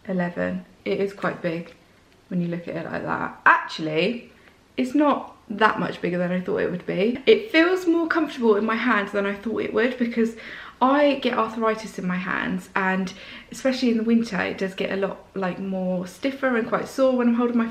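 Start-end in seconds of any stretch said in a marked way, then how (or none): none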